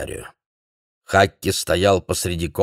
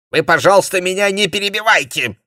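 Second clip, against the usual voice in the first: higher, louder irritated snap; a testy man snarling at his colleague; snapping; 12 semitones higher, 6 dB louder than usual. A narrator's reading. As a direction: bite back at the interruption. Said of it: "огрызнулся интеллигент".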